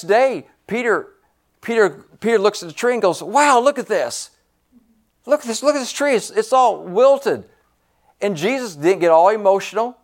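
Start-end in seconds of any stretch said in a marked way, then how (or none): 3.2-7.5 a touch of amazed excitement, higher; worked up wow. Retold or imitated. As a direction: Peter mildly wowed by the tree. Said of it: "all worked up with the wow".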